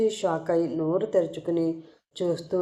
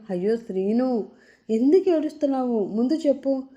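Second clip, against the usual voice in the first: a bit tense; 4 semitones higher than usual. Acted. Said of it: "కొంచెం టెన్షన్గా అడుగుతుంది".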